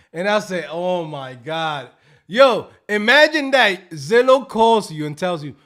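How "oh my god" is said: slow disbelief. Retold or imitated.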